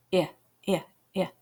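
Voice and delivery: short clipped "I" as in hit; short i sound. Shown as a demonstration. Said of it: "The short sound of I is like I".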